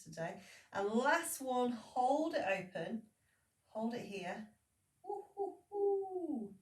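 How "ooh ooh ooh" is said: high, squeaky silly ooh; stupid silly voice. Acted. Instructor pulls a silly voice mid-stretch, daft high hooting. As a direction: ham it up with a daft high hoot. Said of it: "I did that stupid voice".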